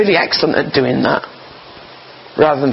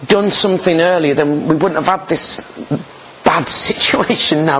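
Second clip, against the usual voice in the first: higher-pitched imagined reproach; complaint to Jesus; 4 semitones higher than usual. Acted. Voicing a follower's thought to Jesus, mild complaint. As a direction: mildly plead as a disappointed follower. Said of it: "Don't feel bad about thinking".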